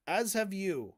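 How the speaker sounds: quiet, understated polite rejoinder. Retold or imitated. Moeen answers the historian back, very politely. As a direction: imitate a courteous, softly placed comeback. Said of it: "very politely says".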